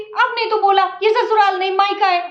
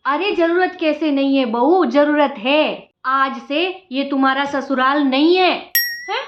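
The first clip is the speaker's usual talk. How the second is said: lightly lowered, motherly mother-in-law voice; 3 semitones lower than usual. Acted. Mother-in-law grandly telling the new bride how things will be, lightly lowered voice. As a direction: play the sweet-talking saas.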